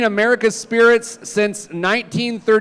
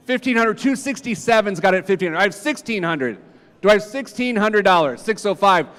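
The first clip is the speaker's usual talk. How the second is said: auctioneer. Real, not acted. Charity auction bidding calls.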